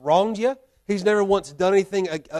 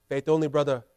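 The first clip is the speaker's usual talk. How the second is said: lightly imitated friend's voice, slightly lower; Mati; 4 semitones lower than usual. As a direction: do a light impression of your missionary friend. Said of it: "That's my best Mati voice there".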